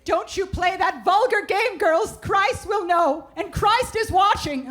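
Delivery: high, slow, stern churchy warning; hammed-up religious scolding; preachy mom impression. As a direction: wag a finger like a pious mother. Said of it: "Her mom kept going".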